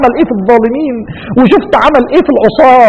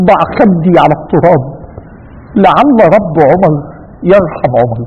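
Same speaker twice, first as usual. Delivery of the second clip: dying plea; 6 semitones lower than usual. Retold or imitated. Dying Omar speaks to son.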